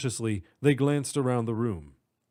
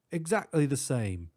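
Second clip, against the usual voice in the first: chuckling; 2 semitones higher than usual. Acted.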